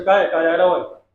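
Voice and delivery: lightly put-on Chambal Hindi; a touch of Chambal accent, ending on a falling tune; Chambal dialect. Shown as a demonstration. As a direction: ask it with a hint of Chambal speech. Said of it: "Chambal division की भाषा".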